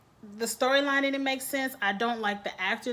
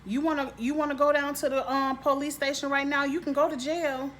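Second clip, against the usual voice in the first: lightly acted confrontation, pitched higher; mildly mock-tough talking-to; confronting as Grace; 4 semitones higher than usual. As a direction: hand down a pushy ultimatum, higher than usual. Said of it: "I would've said".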